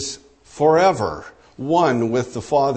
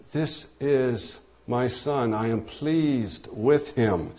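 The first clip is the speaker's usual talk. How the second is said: softer and slow, a gentle fatherly affirmation; tender voice of God; 7 dB quieter, slower than usual. Acted. Preacher voicing God's pride in his Son, soft and slow. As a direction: let it fall soft and slow, like a proud father.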